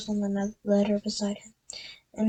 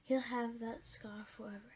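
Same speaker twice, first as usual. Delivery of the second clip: whispering; 17 dB quieter than usual. Acted. McGonagall voiced quietly.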